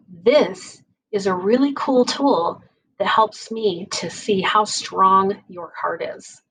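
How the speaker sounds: slow and gentle, selling the tool; slow, coaxing child voice. Shown as a demonstration. Nurse coaxing a child to accept the stethoscope, slow and gentle. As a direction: draw the child in slowly. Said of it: "So I may say".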